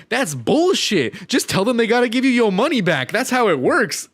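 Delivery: mock angry boyfriend. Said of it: "is like".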